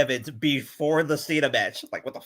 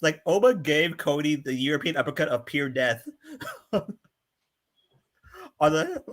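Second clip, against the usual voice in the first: laughing. Real, not acted. Laughing while describing the move.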